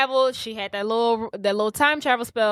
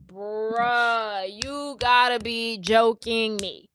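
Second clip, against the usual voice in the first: disbelief; much slower than usual. Retold or imitated. Marnie voiced, disbelieving she is stuck.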